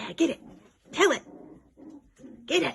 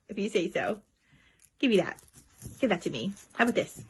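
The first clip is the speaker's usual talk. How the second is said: soft voice; 6 dB quieter, faster than usual. Real, not acted. Soft playful pet talk.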